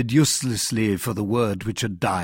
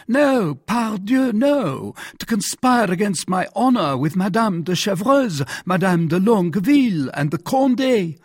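high, louder outraged monarch; agitated royal outburst in a raised pitch; indignant king; 9 semitones higher, 4 dB louder than usual. Acted. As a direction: protest hotly, drawing out the first "no".

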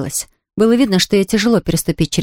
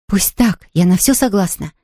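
ordinary delivery, nothing marked

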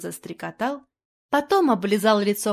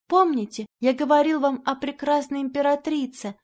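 put-on dying boy; 5 semitones higher than usual. Wounded boy speaking to the painter, weak high voice. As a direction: speak with the last strength.

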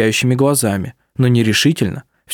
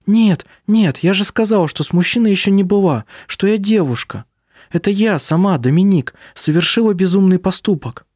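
raised, eager insistence; Vilyamu's high protest; 7 semitones higher than usual. A narrator's reading. Vilyamu protesting her innocence to Dominik, high and eager.

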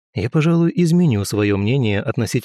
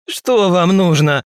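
loud slow croak, pitched up; hoarse shouting stranger; hoarse yell; 8 semitones higher, 5 dB louder, slower than usual. A narrator's reading. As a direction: bark it out like a crow. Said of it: "заорал самоубийца хриплым голосом".

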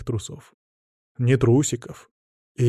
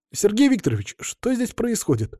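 high-pitched, slowed, put-out question; sullen demand; 10 semitones higher than usual. A narrator's reading. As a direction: press for an explanation. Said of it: "насупился Артур".

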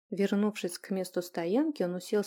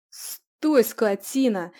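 panicked yell; 3 semitones higher, 10 dB louder, slower than usual. Acted. Julian yells at his bolting horse, afraid to fall. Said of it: "завопил он".

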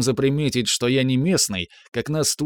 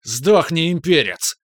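shrill shrieking shout, higher; shrieking guard; 4 semitones higher, 3 dB louder, slower than usual. A narrator's reading. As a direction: scream it at the enemy. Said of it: "завизжал в ответ один из стражников".

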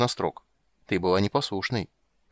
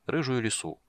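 plain reading voice

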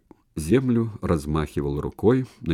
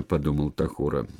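plain reading voice

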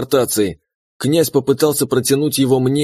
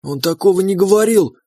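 indignant outburst; 6 semitones higher than usual. A narrator's reading. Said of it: "аж подскочила на ноги Мила".

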